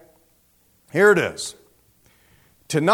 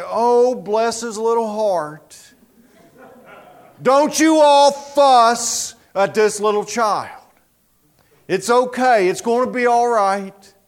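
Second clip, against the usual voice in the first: put-on slow, higher-pitched cooing over a child; acted soothing sympathy; 4 semitones higher, slower than usual. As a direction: fuss tenderly over the baby, drawn out. Acting a merciful person soothing baby.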